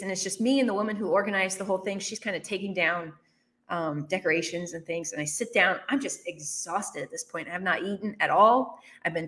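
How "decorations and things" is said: usual speaking voice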